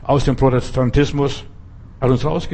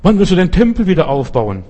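Jewish disciples asking; 6 semitones higher, 4 dB louder than usual. Retold or imitated. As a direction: drag out the eager disciples' demand, up and loud. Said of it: "kommen und sagen".

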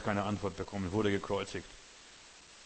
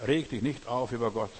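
louder, with Reg hit hard; emphatic repeat; 5 dB louder than usual. Shown as a demonstration. Preacher repeating God's lesson to the congregation, emphatic. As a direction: drive the lesson home.

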